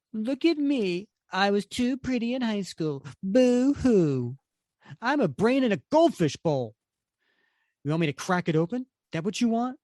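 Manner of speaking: high-pitched put-on taunting voice; mocking brain-in-a-globe character. Reader voices Think Tank jeering at a teammate, mocking.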